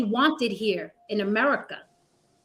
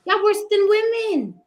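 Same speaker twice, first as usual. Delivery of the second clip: higher and louder, hammer it home; louder indignant callout; 9 semitones higher, 5 dB louder than usual. Real, not acted. Host doubling down on the men on the panel, louder and higher. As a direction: repeat it harder, really leaning in.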